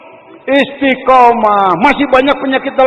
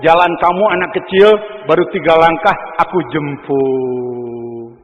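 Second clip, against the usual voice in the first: tender voice of God; 5 semitones lower than usual. Acted. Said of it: "Allah melihat".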